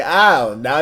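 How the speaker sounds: loud mimicked "oh, no"; mock-dramatic catchphrase; overreacting friend. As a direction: imitate a friend's exaggerated dismay. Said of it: "it was like".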